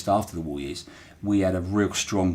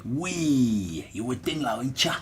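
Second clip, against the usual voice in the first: a hint of broad Portsmouth accent, a little higher; Portsmouth dialect phrase; 4 semitones higher, 4 dB quieter, slower than usual. Shown as a demonstration. Local man greeting a mate in broad Portsmouth accent. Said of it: "a phrase that everybody uses in Portsmouth".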